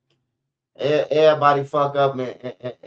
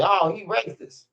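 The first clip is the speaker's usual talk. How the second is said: higher-pitched imitation of frustrated accusers; mock frustration; 6 semitones higher than usual. Mimicking frustrated debate opponents crying racist, mock exasperation. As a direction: throw it up high, mimicking exasperated critics. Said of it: "they get so frustrated and say".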